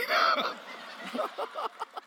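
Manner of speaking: high-pitched burst of laughter. Real, not acted. Laughing at own story.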